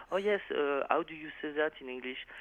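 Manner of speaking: charming, exaggerated French accent; overdone French accent. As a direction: lay the French accent on thick to woo her. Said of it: "sometimes I overdo my French accent when I try to be charmant".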